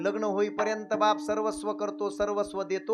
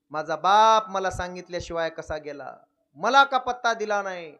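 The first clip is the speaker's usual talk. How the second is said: crying out; 6 dB louder than usual. Retold or imitated. Daughter grieving, crying out.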